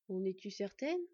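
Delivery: gentle soft question. Acted. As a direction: ask softly, without pressing. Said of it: "d'une voix toujours aussi douce".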